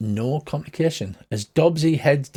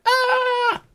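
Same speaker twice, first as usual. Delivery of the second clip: very high, drawn-out mock scream; long squealed "ah"; 4 dB louder than usual. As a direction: imitate a scream, high but not loud. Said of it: "So Sherlock's like".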